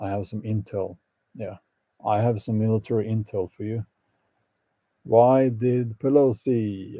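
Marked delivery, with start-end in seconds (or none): 5.0-7.0 slow, lightly put-on Italian accent; rough attempt at an Italian accent. Shown as a demonstration. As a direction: draw it out with a hint of mock Italian. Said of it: "have to say that with an Italian accent".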